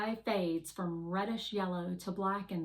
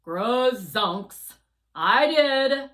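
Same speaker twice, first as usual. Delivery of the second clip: loud, higher astonished outburst; startled exclamation; 5 semitones higher, 13 dB louder, much slower than usual. Acted. Guardian amazed at having said hope, loud and higher. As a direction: blurt it out in shock.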